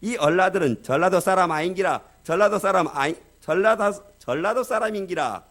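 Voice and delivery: 경상도 사투리로 놀리듯 강조; Gyeongsang dialect jab. Retold or imitated. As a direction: tease in broad Gyeongsang dialect, punching 전라도. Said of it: "뭐라고 말했느냐면".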